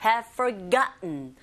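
"Have" reduced to a quick "hev" before a stressed "forgotten"; weak "have". Shown as a demonstration. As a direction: swallow the "Have". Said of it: "have도 약하게 발음하시면".

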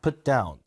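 short "Put", stronger "down"; teacher's model with "down" stressed. Shown as a demonstration. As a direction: put the force on the last word, "down". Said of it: "부동사는 뒤에 힘 준다".

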